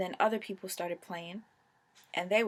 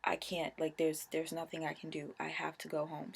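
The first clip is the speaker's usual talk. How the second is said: tearful apology; 2 semitones lower, 3 dB quieter than usual. Retold or imitated. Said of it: "And I was like".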